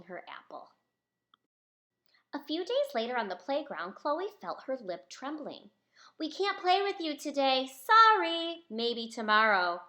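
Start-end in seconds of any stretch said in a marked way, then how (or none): 6.2-9.8 put-on higher, louder mean boy brushing her off; snarled. Boy on the playground turns Chloe away, loud and snide. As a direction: snap it at her like a mean kid. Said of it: "snarled one of the boys".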